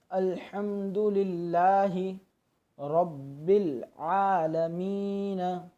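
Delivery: slow recitation, आलमीन drawn out; slow Quran recitation. Shown as a demonstration. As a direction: chant it slowly and melodically. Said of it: "यहाँ देखिए". (धीमी तिलावत, आलमीन खींचकर)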